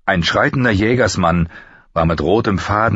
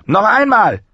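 high, sharp order; barked command; 4 dB louder than usual. Acted. Master-at-arms orders Halder to strike, commanding. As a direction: call for another blow, pitched right up.

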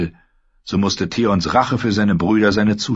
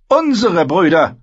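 wry smile; 11 semitones higher, 6 dB louder than usual. Acted. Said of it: "lächelte schief".

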